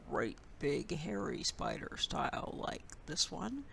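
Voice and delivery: big hairy spider voice. Shown as a demonstration. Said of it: "So we can do the".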